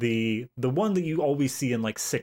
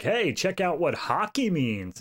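drawn-out, higher show-and-tell quote; mock enthusiasm; 5 semitones higher than usual. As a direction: imitate an eager demonstration, slowly. Voicing characters showing off hockey.

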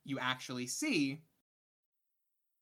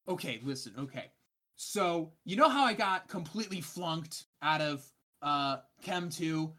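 Lucia's voice; 3 semitones higher, 4 dB louder than usual. Acted.

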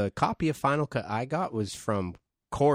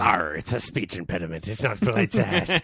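pirate voice; 2 semitones lower than usual. Pretend. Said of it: "I was just doing the pirate voice".

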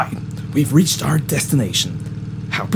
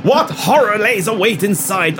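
put-on old newsreel; 6 semitones higher, slower than usual. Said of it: "It's like an old newsreel".

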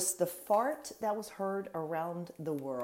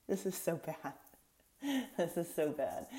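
laughing; 8 dB quieter than usual. Real, not acted. Laughing at own story.

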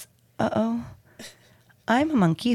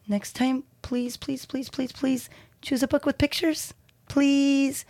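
begging; 5 semitones higher than usual. Acted. Reader begs for pictures.

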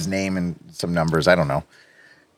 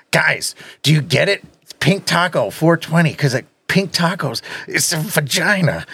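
higher, eager dim-witted voice; dopey guy voice; 5 semitones higher than usual. Retold or imitated. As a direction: play it like a proud simpleton. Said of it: "He was more like".

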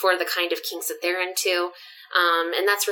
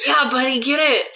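cheering; 7 semitones higher, 6 dB louder than usual. Pretend. Roommates cheering through the door.

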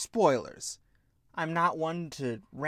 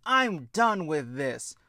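mock exasperated outburst; 2 semitones higher, 5 dB louder, slower than usual. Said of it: "throws up her hands and goes".

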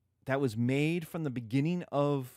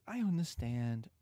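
higher, boastful suitor voice; mock Paris, boastful; 3 semitones higher than usual. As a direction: brag like a self-styled stud. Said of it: "And Paris is like".

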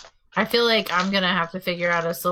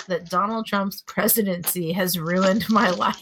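nervous laughter. Real, not acted. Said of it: "maybe I'm laughing 'cause I'm nervous".

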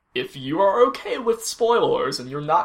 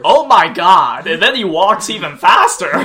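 excited; 7 dB louder than usual. Real, not acted. Excited about Jack walking faster.

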